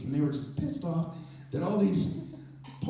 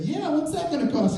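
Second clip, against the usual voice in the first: high, eager and a bit louder; eager question; 10 semitones higher, 4 dB louder than usual. Retold or imitated. Fan asks the stranger the price, high and eager. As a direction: jump at the offer, voice up high. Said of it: "And I said".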